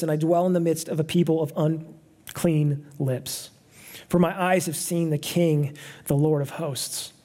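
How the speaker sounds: slow, weighty reading of the prophet's lament; solemn scripture reading. Acted. Pastor reading Isaiah's confession to the congregation, slow and solemn. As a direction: let each clause of the confession sink in, slowly.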